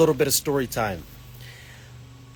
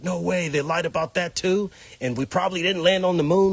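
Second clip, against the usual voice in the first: disbelief; 4 semitones higher than usual. Retold or imitated. Retelling own disbelief at discovery.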